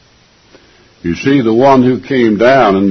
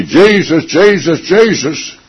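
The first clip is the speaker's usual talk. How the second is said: much higher, pleading repeats of the name, each falling; mock careless prayer; 10 semitones higher, 3 dB louder than usual. Preacher mocking how people pray, high pleading tone. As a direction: mimic someone calling on the name too casually. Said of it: "Not when I say".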